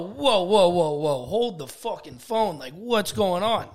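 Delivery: alarmed protest. Retold or imitated. Kid hearing about expulsion, a loud alarmed protest. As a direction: stop them in shock.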